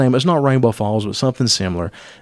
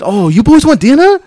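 mock broken English; 12 semitones higher, 6 dB louder than usual. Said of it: "She said".

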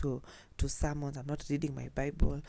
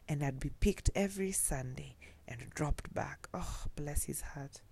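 tender whisper; 4 dB quieter than usual. Real, not acted. Tender memory of uncle.

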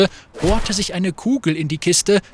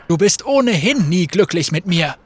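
louder, rushed urging; calling out to Graves to hurry; urgent call; 2 semitones higher, 3 dB louder than usual. Acted. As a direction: hurry him up over the noise. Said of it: "rief Fate".

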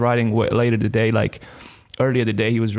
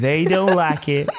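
slow, stretched mock street accent; put-on gangster English accent; 3 semitones higher, slower than usual. Co-host warning about the listeners, drawn-out gangster accent. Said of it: "are you going to do this accent".

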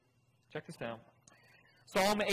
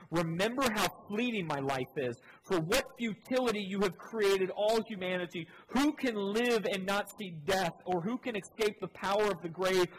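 rising anguished plea; 5 semitones higher, 4 dB louder than usual. Acted. Pleading lament read aloud.

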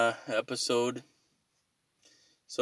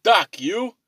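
mock reply; 6 semitones higher, 5 dB louder than usual. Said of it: "they're like".

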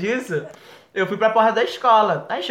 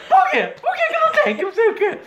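much higher, hammed-up tearless whine; mock sob without real tears; fake crying; 5 dB louder than usual. Dramatic son fake-crying to his parents about the party. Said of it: "sem lágrima nenhuma".

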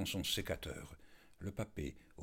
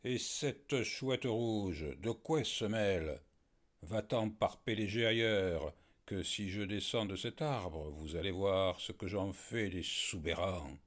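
slow-starting, louder howled threats; furious yell; 4 dB louder than usual. Acted. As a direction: bellow at them from the tree. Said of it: "Le furieux hurla". (hurlement furieux)

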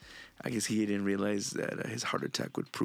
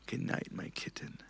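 whisper; 7 dB quieter than usual. Retold or imitated. Hemingway's whispered last words to wife.

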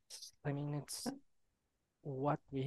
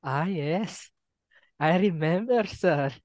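light put-on Indian accent; a hint of an Indian accent, with "sir"; 2 semitones higher than usual. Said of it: "remember you doing the Indian accent here?".

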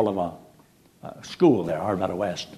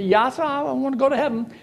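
earnest churchgoer; 14 semitones higher than usual. Retold or imitated. Man in back answers preacher.

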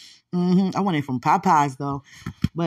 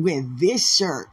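slow deliberate; 2 semitones lower, slower than usual. Shown as a demonstration. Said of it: "No, no".

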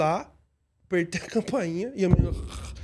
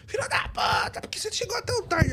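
mock drunk cursing; 12 semitones higher than usual. Drunk girl cursing, retold.

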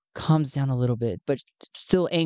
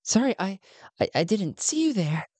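surprised; 5 semitones higher than usual. Acted. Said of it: "a little surprised".

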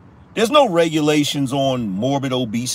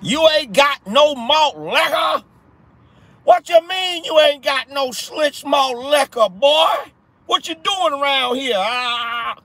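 movie character impression; 9 semitones higher than usual. Quoting a movie at the viewers, hollered high impression. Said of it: "know that reference".

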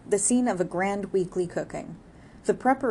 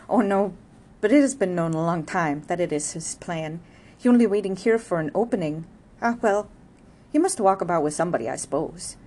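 louder, lightly voiced village gossip; gossiping neighbor; 5 dB louder than usual. Neighbor gossiping to Arabella about Jude, lightly voiced. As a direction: chatter on like a knowing neighbor.

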